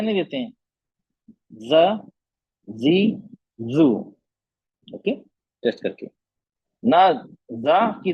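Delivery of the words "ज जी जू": ज, जी, जू said with tongue pressure; pressed zaal demo. Shown as a demonstration. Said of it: "हम pressure देते हैं ना उसको".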